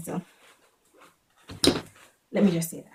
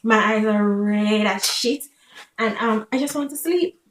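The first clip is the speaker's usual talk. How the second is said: louder, slow and emphatic; 5 dB louder than usual. Real, not acted. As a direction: push it out, slow and strong. Emphatic climax of story.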